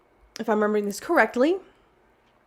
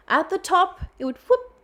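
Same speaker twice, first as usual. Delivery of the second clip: high "whoop"; 10 semitones higher than usual. Acted. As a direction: pitch jumps way up on "whoop". Voicing the rock rolling back.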